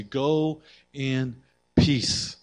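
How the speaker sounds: very slow, tender "Go in peace"; gentle blessing. Acted. Jesus releasing the forgiven woman, slow and tender.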